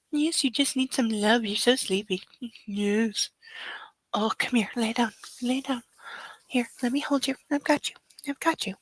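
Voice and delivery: calm the puppy down tenderly; soothing. Real, not acted.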